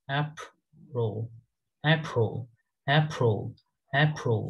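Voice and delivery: এপ্রিল said as ape-rol with a dark l; April with a falling wave; British April. Shown as a demonstration. Teacher drills the British April. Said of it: "এটা হচ্ছে এপ্রিল".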